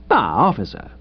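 hesitant, nervous greeting; tentative, unsure opening; weak and nervous. Acted. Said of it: "It sounded a bit weak".

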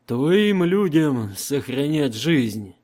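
slow, loud, commanding Emperor. Acted. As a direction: speak as an unshakable emperor. Emperor voiced in audiobook.

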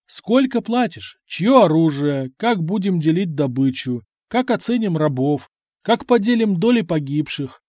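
pressing questions, one after another; rapid-fire demands. Acted. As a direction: fire them off with pushy insistence. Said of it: "выдал Само".

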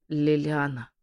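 slow, weak croak of a waking man; faint hoarse murmur; hoarse rasp. Acted. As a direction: rasp the name out barely alive. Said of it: "прохрипел Асгард".

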